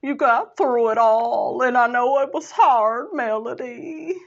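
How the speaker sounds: a hint of Miss Van, only lightly voiced; lightly imitating the older lady's sincere comfort; Miss Van's voice. Host imitating Miss Van comforting Melody, lightly voiced. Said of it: "I'm trying to do Miss Van's voice".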